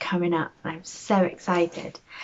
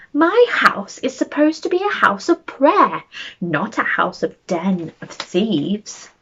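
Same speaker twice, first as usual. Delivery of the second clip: mock angry shout; 5 dB louder than usual.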